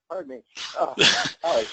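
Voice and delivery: hushed apology after coughing; just swallowed a bug. Real, not acted. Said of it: "I think I swallowed a fly".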